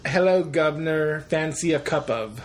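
measured, proper British accent. Shown as a demonstration. Host giving a sample sentence, proper British accent. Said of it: "of a more proper British accent".

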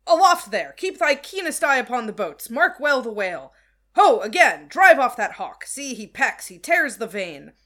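loud calls up to the lookout; shouting up the mast. Acted. Starbuck calls up to the masthead.

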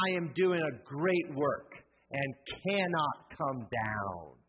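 slow, deliberate group read; congregation reading. Shown as a demonstration. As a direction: read it out together, measured. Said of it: "Let's read that line in orange together".

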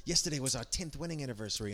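quick, lightly imitated Aussie accent; wife's Australian accent. Husband quoting wife about the forgotten date, in a light mock Australian accent. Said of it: "like how you do your wife's accent".

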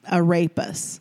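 "arepas" slowly, without the Spanish accent; accentless arepas. Shown as a demonstration. Showing how it sounds without the accent, plain English "arepas". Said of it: "when you say it slower and without the accent".

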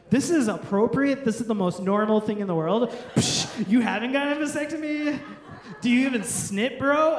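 loud, pushy mock astonishment; peer pressure. Friends teaming up over a vasectomy, incredulous pressure. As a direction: act out friends ganging up, loudly.

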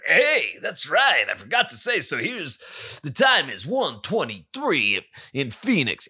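upbeat radio announcer; bright on-air radio guy. Shown as a demonstration. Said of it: "I almost sound like a real radio guy there".

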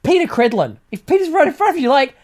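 acted moral outrage, emphatic and accusing; pretend indignant scolding. Confronting a staffer over the government's harm, indignant.

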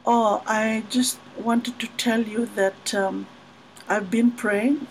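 a softly serious I've been praying; hushed earnest. Retold or imitated. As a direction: quietly voice a shy suitor. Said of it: "he said".

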